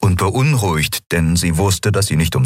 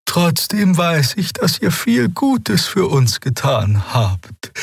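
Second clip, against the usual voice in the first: put-on much higher, slow, awed young voice; young healer Xea; slower than usual. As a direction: speak with reverent wonder, slowly. Sagte die Heilerin. (hohe, langsame, ehrfürchtige Stimme)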